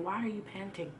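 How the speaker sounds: God asking tenderly, almost under his breath; gentle God voice. Retold or imitated. Preacher voicing God softly to the congregation, quiet and gentle.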